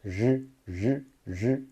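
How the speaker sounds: throaty buzzing j held in the throat; Mandarin r sound. Shown as a demonstration. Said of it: "o R ele tem um som assim".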